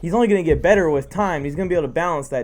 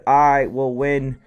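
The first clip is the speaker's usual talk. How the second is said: slow, low commanding dictator; 4 semitones lower, slower than usual. Acted. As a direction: declare it like a stern dictator. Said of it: "like, a dictator voice?".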